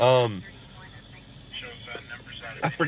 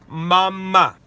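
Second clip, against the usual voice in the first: coaxing "mama"; 3 semitones higher, 5 dB louder than usual. Shown as a demonstration. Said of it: "Say mama".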